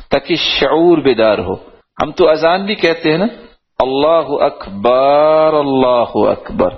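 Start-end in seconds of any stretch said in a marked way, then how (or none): 3.8-6.7 very slow, stretched call to prayer; drawn-out village call, akbar stretched; mocking a village muezzin, slow and long; village-style azan. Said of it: "جیسے دیہاتوں میں ہوتی".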